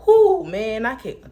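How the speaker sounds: very high loud cry; hammed-up exasperated cry; loud mock despair. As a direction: cry out at wits end. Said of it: "that was loud".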